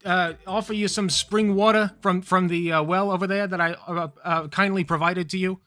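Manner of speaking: chatty Italian God, way up in pitch; Italian accent. Acted. God greets Adam in an Italian accent. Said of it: "a nice Italian voice".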